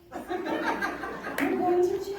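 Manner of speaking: high teasing through laughter; laughing teasing. Retold or imitated. Husbands teasing her as she is led off, laughing. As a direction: wave her off to jail, laughing. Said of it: "they go".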